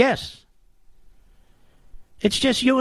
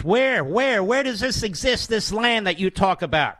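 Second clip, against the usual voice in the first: challenging questioner; 4 semitones higher than usual. Retold or imitated. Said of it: "he was challenged".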